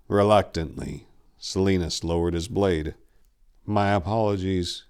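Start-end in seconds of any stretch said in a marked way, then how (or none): 3.6-4.8 calm. Acted. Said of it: "his voice now calm".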